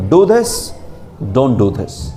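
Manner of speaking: a hint of a king giving orders; commanding order. Teacher mimics a king ordering his subjects, lightly commanding. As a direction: bark it out like a ruler, lightly. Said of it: "king speaks as order".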